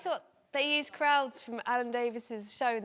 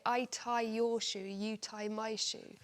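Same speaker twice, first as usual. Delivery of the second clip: fake background chatter; slower than usual. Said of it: "so they just got them to say".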